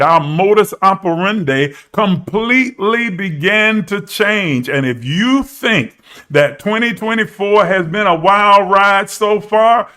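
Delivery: rising prophetic warning with punched words; emphatic preaching. Real, not acted. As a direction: preach it forcefully, stretching the key words.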